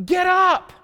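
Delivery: high, forceful preacher's shout; full-voiced, commanding cry. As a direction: shout it to rouse the dead. Jesus commanding the dead to rise.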